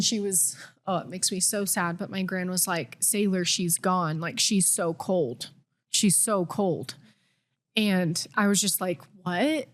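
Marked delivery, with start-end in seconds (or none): 3.0-6.9 slow, grieving gran, lightly voiced; imitating a grandmother in tears, slowly; a hint of a sobbing gran breaking bad news; mild retold crying gran. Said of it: "it was my gran crying". 9.2-9.7 higher, stunned disbelief; retold gasp of shock; mock stunned reaction to terrible news; shocked what. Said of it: "just in utter shock".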